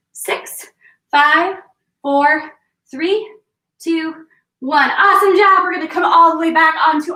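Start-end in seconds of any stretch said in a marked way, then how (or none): 4.9-7.1 shouting praise. Real, not acted. Coach praising after the set.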